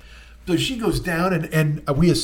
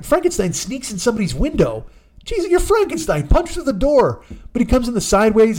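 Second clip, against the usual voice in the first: usual speaking voice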